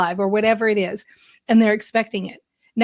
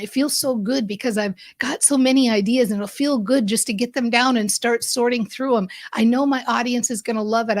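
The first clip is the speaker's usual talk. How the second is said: eager, building enthusiasm; excited self-talk. Shown as a demonstration. Coach demos fired-up self-talk to listeners, eager and upbeat. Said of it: "Start saying".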